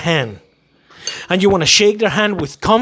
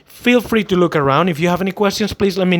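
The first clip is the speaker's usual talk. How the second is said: welcoming greeting; 2 semitones lower than usual. Shown as a demonstration. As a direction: greet the customer calmly. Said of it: "and say".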